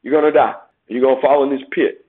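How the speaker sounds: loud, blunt warning from the pulpit; forceful, no softening. Real, not acted. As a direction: hit them hard with the hard truth. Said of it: "you need to hear it like that".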